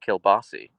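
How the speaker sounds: "kielbasi" ending in a bright ee sound; Pittsburgh pronunciation. Shown as a demonstration. Streamer showing viewers how Pittsburgh says it, local pronunciation. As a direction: say "kielbasi" with a final ee, Pittsburgh style. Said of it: "in Pittsburgh, they pronounce it".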